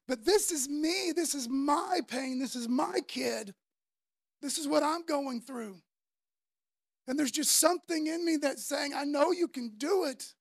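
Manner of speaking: acted father pressing his case; insistent, stressing each personal claim; mildly anguished appeal; earnest plea. Father pleading his own case to Jesus.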